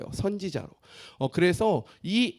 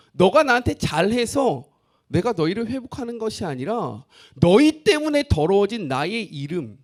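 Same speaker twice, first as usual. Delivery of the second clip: God declaring; 3 semitones higher, 5 dB louder than usual. Acted. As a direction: declare it firmly as God's word. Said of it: "그 이유를 무엇이라고 이야기합니까?".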